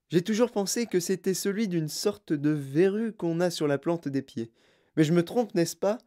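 gushing, eccentric host voice; lively, effusive greeting of a child and parents; Wonka greeting guests. Acted. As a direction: lay on the delighted welcome.

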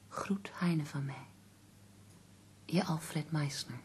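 even, measured reading-aloud voice; letter reading. Acted. Companion reads a letter aloud to the poet, measured and even. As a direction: read the letter out steadily, slowing at the sign-off.

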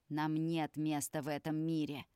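usual speaking voice

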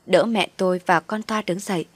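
ordinary delivery, nothing marked

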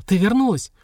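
plain reading voice

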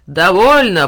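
loud booming command; thundering shout. A narrator's reading. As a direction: silence the crowd of children. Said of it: "прокричал старик". (громовой окрик, громко)

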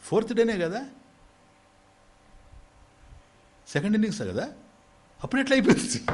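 high, amazed disbelief; can't believe it's over already; high-pitched astonished question; incredulous. Acted. Incredulous question at quick finish.

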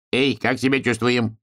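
lightly voiced Martian hail; Martian calling out. A narrator's reading. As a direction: call out as the sly Martian. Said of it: "крикнул первый марсианин".

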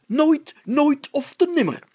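roaring. A narrator's reading. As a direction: bellow it with all your weight. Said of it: "brulde de burgemeester".

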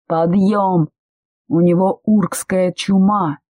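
mild mock yell, slowing on the last words; yelled alarm. Stranger wakes the passengers about the plague, mild yell. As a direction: raise the alarm across the cabin. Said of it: "кто-то неизвестный проорал".

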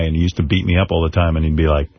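normal talking voice

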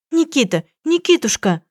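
put-on high, calling cry of the girlfriend; crying out a name. A narrator's reading. Girlfriend running in to her fallen boyfriend, a high, calling cry. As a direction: call his name, voice shooting up. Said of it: "Девушка с криком вбежала на кухню".

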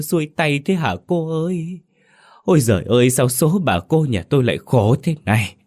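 keen over the coffin like a grieving wife; mourning wail for the dead aunt; wailing lament. A narrator's reading. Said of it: "nghe vợ gào khóc".

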